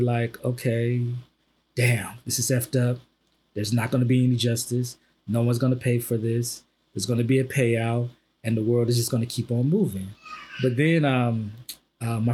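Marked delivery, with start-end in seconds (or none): 0.4-10.1 mildly numb, slightly low and subdued. Retold or imitated. Host voicing his own thoughts on another killing, numb. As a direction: retell it with detached resignation. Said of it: "like, numb to it".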